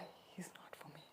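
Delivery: whispered, whiny aunt imitation; whiny little aside. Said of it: "in, like, this whiny voice".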